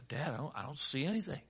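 soft, low, hurried admission; puzzled boy. Acted. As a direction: stammer it softly to dad. Puzzled boy answering dad.

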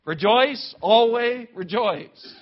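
loud, high, slowed call to rejoice; emphatic command. Real, not acted. Preacher urging the church to rejoice, loud, high and slow. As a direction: drive the command home, slowing on always.

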